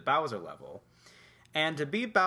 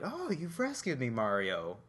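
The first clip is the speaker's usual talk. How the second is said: Princess Peach. Retold or imitated. Rescued princess to her hero, mildly unexcited. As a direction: imitate an unexcited rescued damsel. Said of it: "she didn't even sound excited".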